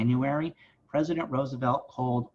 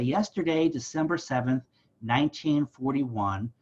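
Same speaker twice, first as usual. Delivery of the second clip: mock Roosevelt speech. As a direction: read it like a wartime address, only a hint of FDR. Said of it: "dramatic pause".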